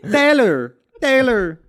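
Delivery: slow, stiff robot-like fake Vietnamese accent; robotic mock Vietnamese accent. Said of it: "Why do you sound like a robot".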